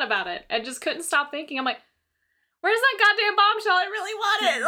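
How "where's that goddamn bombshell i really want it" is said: high, mock-crying whine; hammed-up near-tearful wail; whiny upset. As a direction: whimper for the missing gift. Retold whining for gift.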